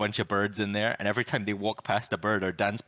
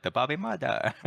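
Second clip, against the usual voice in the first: higher-pitched imitation of an Asian accent; mock Asian accent; 5 semitones higher than usual. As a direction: imitate an angry character in a bad Asian accent. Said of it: "he speaks like Andrew Santino doing the Asian accent".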